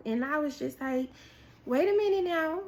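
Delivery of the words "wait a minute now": startled hesitation. Retold or imitated. Acts out doubting God's timing.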